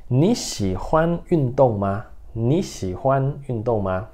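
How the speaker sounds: "Ni xihuan yundong ma" read slowly, each syllable clear; slow model pronunciation. Shown as a demonstration. Teacher reading the Mandarin question slowly to students. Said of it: "Então, ó".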